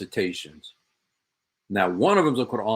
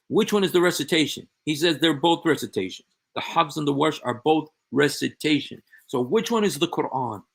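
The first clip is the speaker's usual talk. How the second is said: exasperated; 4 semitones higher, 4 dB louder than usual. Real, not acted. Exasperated challenge to a sheikh's claim.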